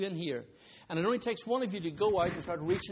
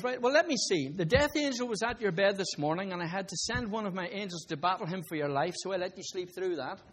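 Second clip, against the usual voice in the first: voice of God; 2 semitones higher than usual. Retold or imitated. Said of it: "God says".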